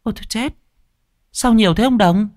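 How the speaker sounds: high, panicky woman's voice; shocked at the price, voice shooting up; high alarmed wife crying out. A narrator's reading. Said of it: "mợ hốt hoảng".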